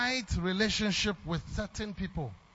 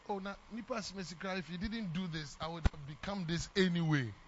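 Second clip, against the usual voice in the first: imitating dismissive people; 3 semitones lower, 6 dB quieter than usual. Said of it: "we easily say".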